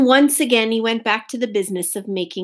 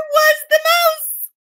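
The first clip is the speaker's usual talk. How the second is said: shocked discovery; 4 dB louder than usual. A narrator's reading.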